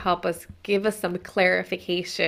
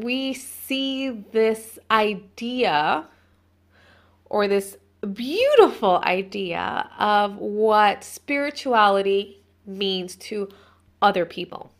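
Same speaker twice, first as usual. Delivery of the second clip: dreamy mock; slower than usual. Real, not acted. Dreamy mock of social media.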